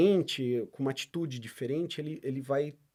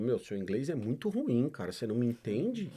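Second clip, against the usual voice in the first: teasing. Retold or imitated. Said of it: "eu até sacaneio os caras".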